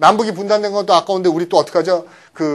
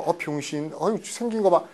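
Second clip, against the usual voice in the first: taunting; 6 dB quieter than usual. Shown as a demonstration. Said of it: "프로보크가 약 올리다".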